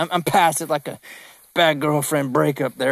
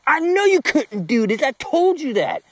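high, pointed I-told-you-so; 9 semitones higher than usual. Retold or imitated. Coach answers a client who quit, told-you-so. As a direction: rub it in, lightly mocking.

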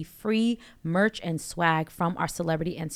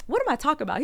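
imitating a country accent, much higher; 9 semitones higher, much faster than usual. Retelling a comedian's bit in a higher country accent. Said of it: "he was a real country, like, strong sound in his voice".

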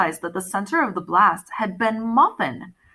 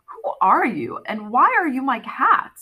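demanding; 4 semitones higher than usual. Acted. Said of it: "I demanded".

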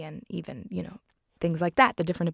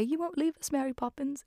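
put-on high, softened child voices; pleading children; 8 semitones higher, 4 dB quieter than usual. Crying children ask the nanny to stay, imitated high and soft. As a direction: imitate upset kids, pitched well up. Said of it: "they basically just say".

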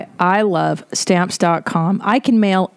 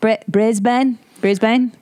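higher, put-on Australian accent; 4 semitones higher, slower than usual. Shown as a demonstration. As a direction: practise the name like an Aussie. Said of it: "I do a perfect Australian accent".

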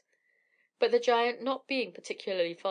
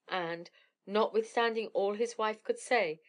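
ordinary delivery, nothing marked

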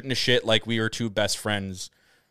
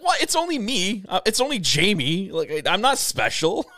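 high-pitched, disbelieving modesty; light, high "it's only little me" voice; imitated reassurance; 11 semitones higher, 4 dB louder than usual. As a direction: play her brushing off the fuss, voice lifted high. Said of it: "she was, like, calming me down".

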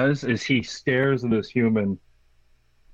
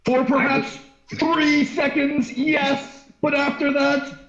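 high, dry alien voice; Xanthorpe replying; 11 semitones higher, slower than usual. Acted. Xanthorpe dryly answers the bard, high deadpan.

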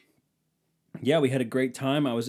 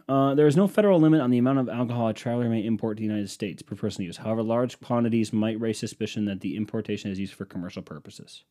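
quick, official readout; fast, dry reading from the screen; reading search result; 4 dB louder than usual. Acted. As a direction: rattle it off like a web page.

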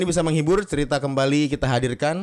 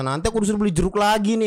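put-on kid complaining; 6 semitones higher, faster than usual. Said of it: "bilang anaknya".

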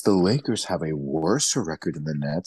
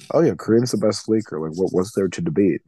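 dead serious; faster than usual. Retold or imitated. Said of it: "he was being so serious in that moment".

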